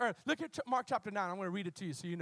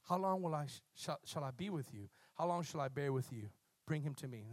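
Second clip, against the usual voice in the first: Jesus rebukes; 7 semitones lower, 5 dB quieter than usual. Acted. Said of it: "He said".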